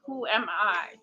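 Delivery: "Who" stressed, "am I" lighter. Shown as a demonstration. Demonstrating the first time of the question, stress on "Who". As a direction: lean on the word "Who". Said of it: "put the emphasis on a different word".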